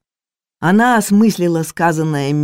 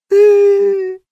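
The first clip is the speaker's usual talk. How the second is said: much higher, loud crying howl; wailing howl; 7 dB louder than usual. Acted. Maid howls in tears on the floor, loud high wailing howl. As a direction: let out a long sobbing wail.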